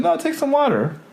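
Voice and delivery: high-pitched hospitable insistence; sweet mom. Retold or imitated. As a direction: imitate a mother pressing a drink on a guest. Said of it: "her mom's very sweet".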